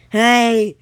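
loud, high, drawn-out hail; calling out. Acted. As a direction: shout to a departing ship. Waving and calling at ships.

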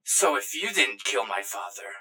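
low, quiet ghostly voice; Greg Junior. Acted. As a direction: drop low and soft as the son. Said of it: "and goes".

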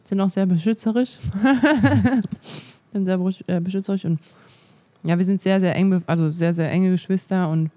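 talking while chewing; words round a bite of ham; mouth full. Real, not acted. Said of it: "sprechen und kauen ist ganz schön anstrengend".

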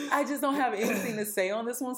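laughing. Real, not acted. Admits she remembers nothing.

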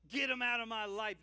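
a sudden loud burst of the psalm; loud outburst. Acted. Preacher acting out the psalmist's cry to God, loud outburst. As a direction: throw it out with force.

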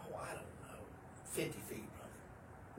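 a creeping whisper about the giant bull; hushed whisper. Retold or imitated. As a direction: hush as if the bull might hear. Sneaking up close to bull.

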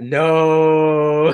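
sudden high, loud disbelieving no; stunned friend cutting in; shocked no. Real, not acted. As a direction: blurt it out in shock. Friend reacts in disbelief to story.

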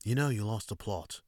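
put-on calmer second go at a British accent; understated British accent imitation; Gordon Ramsay retry. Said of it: "Let me try that again".

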